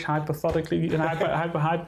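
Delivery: "Hypothetically" then "hypo-" sounded out haltingly, syllable by syllable; careful english. Real, not acted. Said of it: "how do you say that in English?".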